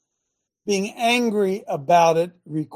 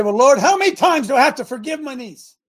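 higher, louder mock complaint to the Lord; mock whiny question; 8 semitones higher, 8 dB louder than usual. Believer asking the Lord about forgiving his niece, mock whiny. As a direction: whine it like a put-upon believer. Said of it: "They say".

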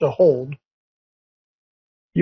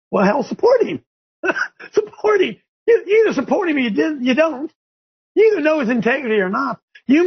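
excited; 8 semitones higher than usual. Real, not acted. Laughing emphatic exhortation.

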